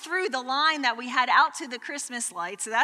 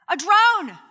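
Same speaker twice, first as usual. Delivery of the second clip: dramatic reveal; 8 semitones higher, 10 dB louder than usual. Real, not acted. Punchline reveal.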